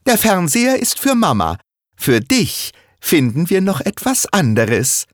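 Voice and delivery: put-on high, fast child's voice explaining; Sarah explaining to her father, high and quick; eager young girl. Little girl explaining the rules to dad, high and fast.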